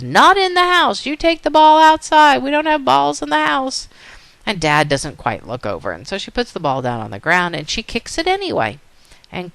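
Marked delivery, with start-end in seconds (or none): 0.0-3.9 loud, high telling-off from mom; acted parental scolding, pitched high. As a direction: play a mother laying down the law. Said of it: "And Mom says".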